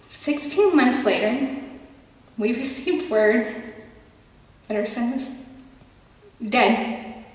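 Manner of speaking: halting, with long heavy pauses; restrained grief. Acted. Mother telling of her son's death, restrained grief.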